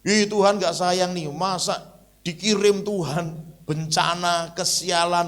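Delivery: high, loud indignant whine; mock the sulky believer; hammed-up grumble at God, slowed in the middle; whiny complaint. Jangan sampai salah.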